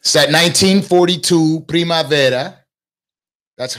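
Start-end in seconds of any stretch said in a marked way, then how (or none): 0.0-2.6 Spanish pronunciation. Real, not acted. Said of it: "I don't know why I'm speaking in Spanish".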